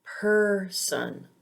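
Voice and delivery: person with a long stressed PER; stressed er sound. Shown as a demonstration. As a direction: say person as PER-son, falling away. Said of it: "this sound is always stressed".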